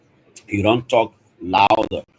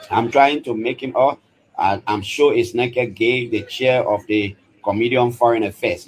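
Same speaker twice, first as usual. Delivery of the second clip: louder live commentary during the break; raised, energetic radio report; 3 semitones higher than usual. Real, not acted. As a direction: speak up now that the session is paused. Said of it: "you will hear me talking louder".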